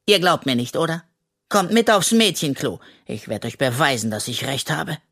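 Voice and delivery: lightly voiced cheeky raccoon, easy and carefree; a hint of a greedy little raccoon, unbothered; raccoon Henry. (Waschbär Henry, leicht verstellt und unbekümmert)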